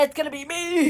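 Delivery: high, loud imitation; loud mock announcement. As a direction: belt it out, mimicking the line. First take of excited retold line.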